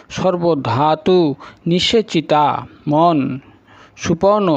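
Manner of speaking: devout recitation of names, each set apart by a pause; litany of sacred names. Acted. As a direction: intone the holy names one by one like a hymn. Recites the Sun's 108 names.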